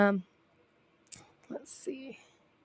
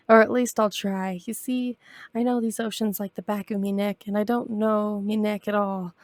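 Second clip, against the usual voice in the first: pirate voice. Acted. Reads pirate captain's lines.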